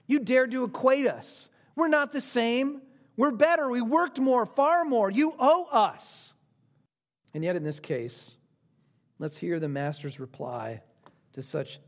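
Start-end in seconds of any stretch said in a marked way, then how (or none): 0.1-6.3 high, acted outraged protest; indignant complaint. Workers objecting to equal pay, acted indignation. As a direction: insist on what you are owed. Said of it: "what their great complaint was".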